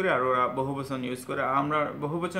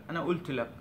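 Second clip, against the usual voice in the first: আনা কুলতু লাক with the k of কুলতু dropped, softer; Egyptian pronunciation; 4 dB quieter than usual. Retold or imitated. Teacher imitating Egyptians saying the phrase, glottal stop. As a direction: drop the k of কুলতু Egyptian style. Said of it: "আবার Egyptian".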